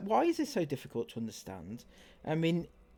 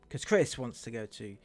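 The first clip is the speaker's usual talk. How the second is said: teasing. Real, not acted. Teasing Chris, drawn out.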